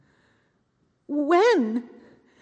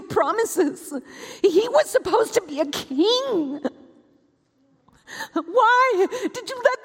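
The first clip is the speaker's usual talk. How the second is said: crying; 2 semitones higher than usual. Acted. Grieving mother cries out to God.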